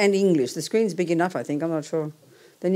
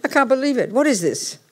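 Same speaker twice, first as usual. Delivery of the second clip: exasperated; 6 semitones higher than usual. Real, not acted. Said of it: "I'm getting angrier by the minute".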